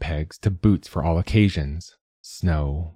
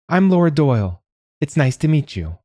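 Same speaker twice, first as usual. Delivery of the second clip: high nasal introduction; high, nasal, polite greeting; nasal visitor; 8 semitones higher, 3 dB louder than usual. A narrator's reading. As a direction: introduce yourself in a high-pitched social worker voice. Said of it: "called a nasal voice".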